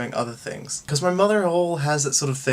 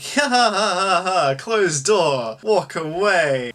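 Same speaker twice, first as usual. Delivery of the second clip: mock laugh; 3 semitones higher, slower than usual. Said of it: "Others just were like".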